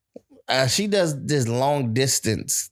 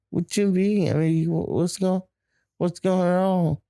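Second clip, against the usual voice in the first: put-on confused girlfriend; 5 semitones higher than usual. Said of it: "She's like".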